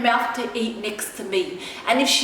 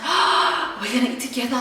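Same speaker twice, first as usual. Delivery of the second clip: mock excitement. Retelling her own nervous excitement.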